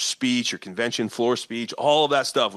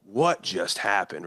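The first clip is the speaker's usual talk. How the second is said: lower, slow, dumbfounded; stunned; 4 semitones lower, slower than usual. Retold or imitated. Onlookers puzzling over the win, lower, slow and stunned. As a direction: let the shock sink in slowly. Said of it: "They're gonna be like".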